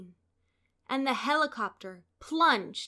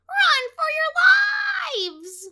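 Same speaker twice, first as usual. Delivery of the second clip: much higher, loud; panicked shout; 12 dB louder than usual. A narrator's reading. Chicken Little warns the birds, shouting. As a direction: yell the warning.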